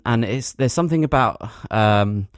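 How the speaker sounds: groping vaguely for details; feigned forgetfulness. Acted. Winding up a friend about a film, feigned forgetfulness. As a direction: stall with hesitant pauses, as if unsure. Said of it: "as if you can't remember what the film is".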